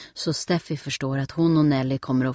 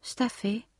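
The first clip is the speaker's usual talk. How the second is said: small, higher, quiet trembling voice; a frightened child calling her sister; little sister, scared, voice trembling; 7 semitones higher, 5 dB quieter than usual. A narrator's reading. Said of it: "säger Nelly med darrande röst".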